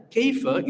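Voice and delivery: "Kayfa" lifted high as a question; "Kayfa" voiced as a real question, high; read like a question. Shown as a demonstration. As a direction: ask it: "Kayfa", pitch jumping up. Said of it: "So you will read it like a question".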